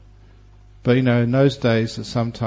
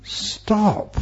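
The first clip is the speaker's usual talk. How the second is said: gentle Buddha; 8 semitones higher than usual. Retold or imitated. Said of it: "it's the Buddha saying".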